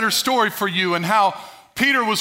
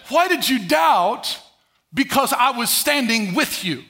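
slow, drawn-out question, then easing; reassuring; slower than usual. Retold or imitated. Preacher gives Jesus' gentler meaning to Peter, reassuring. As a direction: ask it slowly as encouragement. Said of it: "I don't believe that's what Jesus was saying".

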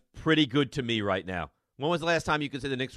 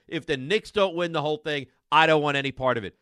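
mock caller. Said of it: "call this show and say".

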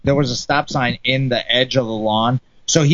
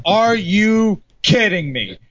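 high, slow mock yell; incredulous holler, pitched up but only half yelled; imitated yell; 5 semitones higher, slower than usual. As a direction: draw out each word in retold outrage. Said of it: "and then he yelled".

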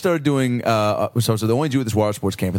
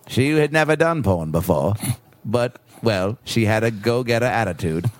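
Morgan Freeman narration. Retold or imitated. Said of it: "how would Morgan Freeman narrate it".

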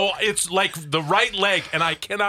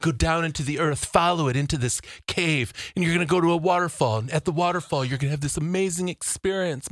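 mock guided imagery; 2 semitones lower, 3 dB quieter than usual. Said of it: "she's doing this guided imagery".

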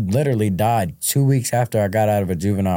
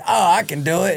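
mock overconfident; 9 semitones higher than usual. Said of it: "they out there".

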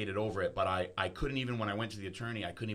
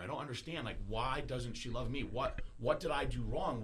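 retold pleading. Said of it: "And I said".

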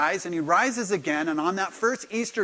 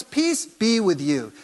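calm greeting; 3 semitones higher, 4 dB louder, slower than usual. Retold or imitated. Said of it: "He says".

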